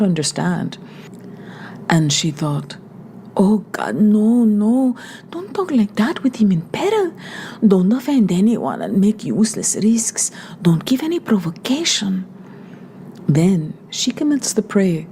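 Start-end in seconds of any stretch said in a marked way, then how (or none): 3.3-12.3 frightened Maria. Acted. Young woman thinks in panic.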